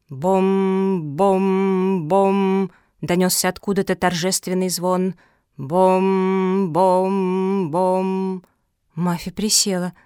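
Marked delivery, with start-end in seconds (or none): 0.1-2.7 slow booming bell imitation; solemn bell toll. A narrator's reading. 5.6-8.4 slow booming bell imitation; solemn bell toll. A narrator's reading.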